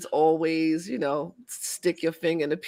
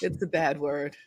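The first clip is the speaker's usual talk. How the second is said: sheepish; 3 semitones lower, 5 dB quieter than usual. Real, not acted. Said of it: "I feel shamed just saying it".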